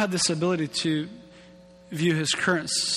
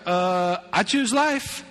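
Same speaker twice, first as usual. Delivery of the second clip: lightly voiced, eager and obvious; mock eager pick; mock obvious answer; 3 semitones higher, slower than usual. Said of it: "You'd be like".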